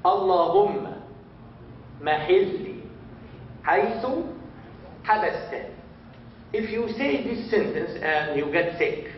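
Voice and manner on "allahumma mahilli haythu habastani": slow again, Allahumma barely voiced at the start; slow second run-through; repeat slowly. Shown as a demonstration. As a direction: model it again word by word. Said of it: "everybody say".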